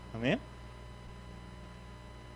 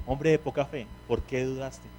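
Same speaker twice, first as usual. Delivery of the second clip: softer, tender read of "Hombre de poca fe"; fatherly tone; 6 dB quieter than usual. Shown as a demonstration. Preacher reads Jesus' words as a tender father. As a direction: say it gently, like a loving father. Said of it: "Que cambia el tono".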